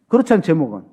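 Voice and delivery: ordinary talk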